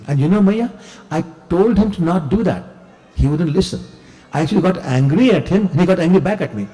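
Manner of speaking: put-on a boy talking fast to shift the blame; excited child excuse. Child Krishna blaming reflection.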